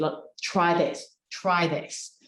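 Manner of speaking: slow, calm offer; comfortable and unhurried. Shown as a demonstration. Coach showing a calm, confident pitch to clients. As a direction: take your time and own the words. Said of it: "I'm comfortably saying to you".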